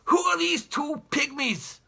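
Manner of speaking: put-on haughty old explorer, barking at the family; pompous great uncle. Pompous great uncle sneering at the spongers in his house, loud and scornful. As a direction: look down your nose and bellow. Jeremy jabs cane at children.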